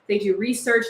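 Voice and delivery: normal talking voice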